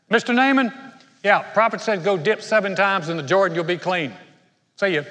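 calling out the name, then breezy; casual, dismissive messenger; offhand messenger. Retold or imitated. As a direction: toss it off and leave.

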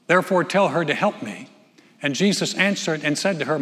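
measured Bible reading from the pulpit; preacher reading Luke to his church; scripture reading. Acted. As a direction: read the passage aloud to the congregation. Reads the Luke passage aloud.

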